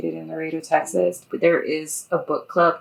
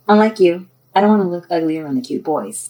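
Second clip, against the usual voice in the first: louder, lightly teasing jab at a friend; 9 dB louder than usual. Acted. Elizabeth to sleepy friend Casey, teasing. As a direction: tease your sleepy friend a little. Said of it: "teased Elizabeth".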